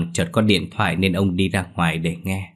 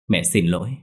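strained, short of breath; choked. Acted. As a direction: force words out while choking. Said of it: "khó thở nhưng vẫn cố nói".

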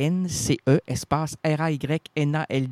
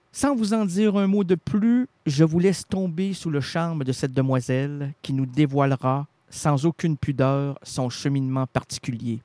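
grand guest introduction. Pretend. Host formally introduces his guest.

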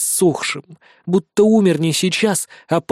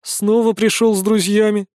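smirking; 5 semitones higher than usual. A narrator's reading. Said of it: "усмехается Сейнарай".

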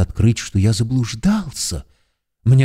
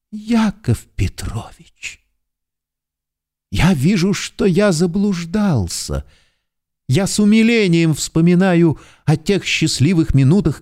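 tearful plea; 6 semitones higher than usual. A narrator's reading. Pleading hero, higher voice.

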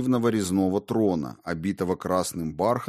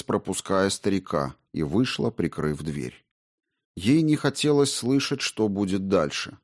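ordinary delivery

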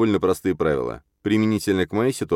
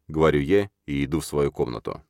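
ordinary delivery

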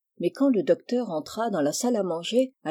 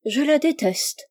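high, slow, emphatic DÉTESTE; 6 semitones higher than usual. A narrator's reading. Niece answering her uncle about the oatmeal porridge, emphatic. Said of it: "avec emphase".

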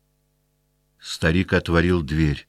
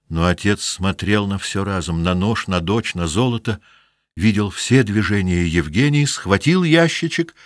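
usual speaking voice

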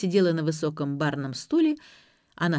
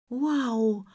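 gasp of surprise; 5 semitones higher than usual. A narrator's reading. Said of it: "ахнула Ксюша".

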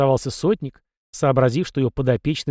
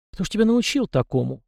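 higher, mildly exasperated weariness; heavy sigh; 7 semitones higher than usual. A narrator's reading. Captain asks who taught the boy this, weary sigh. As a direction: sigh it out in understated dismay. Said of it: "тяжело вздохнул сотник".

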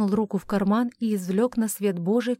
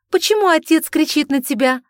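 alarmed; 7 semitones higher, 9 dB louder than usual. A narrator's reading. Frightened sister asking.

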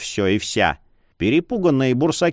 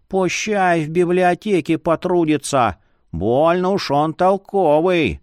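lightly voiced jolly old man; a creaky cheerful old scholar; 3 semitones higher than usual.

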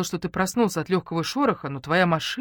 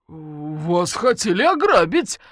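excuse; 7 dB louder, much slower than usual. Acted. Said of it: "попытался оправдаться полковник".

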